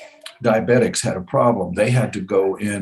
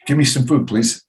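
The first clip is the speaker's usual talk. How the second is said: retold pleading; 5 semitones higher, 4 dB louder than usual. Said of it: "And I'm begging them".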